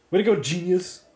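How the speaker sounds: loud sarcastic jab at himself; mock yourself, loud and biting; sarcastic self-scolding. Real, not acted. Blew myself up with bomb.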